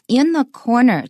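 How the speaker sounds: "in" kept light before "corner"; unstressed "in". Shown as a demonstration. Teacher showing an ordinary preposition, unstressed "in". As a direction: let "in" pass without stress, weight on "corner". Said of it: "it's just an ordinary preposition".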